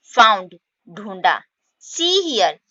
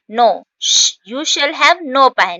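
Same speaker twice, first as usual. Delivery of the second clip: louder, firm refusal; stern cat; 4 semitones higher, 5 dB louder, much slower than usual. Acted. Mother cat refuses the kittens pie, louder. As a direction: deny the pie firmly. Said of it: "फिर cat कहती है".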